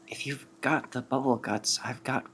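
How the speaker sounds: hushed, half-whispered aside; mock whisper. Offering herbs discreetly to Esmond, lightly whispered. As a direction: lean in and offer it under your breath. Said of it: "then whispers over to Esmond".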